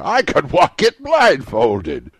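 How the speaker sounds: high, loud fervent cry. A narrator's reading. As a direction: cry it out with fervour. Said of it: "cried Scrooge with fervour".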